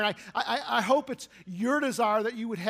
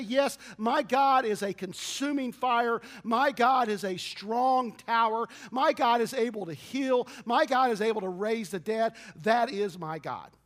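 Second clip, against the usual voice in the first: bold declaration. Retold or imitated. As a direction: declare each line with rising fervor. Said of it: "the Father could say that and say".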